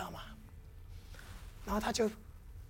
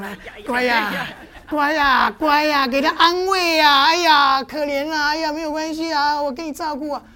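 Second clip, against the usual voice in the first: soothing pastor; 3 semitones higher, 6 dB louder than usual. Acted. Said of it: "牧师来怎么样？".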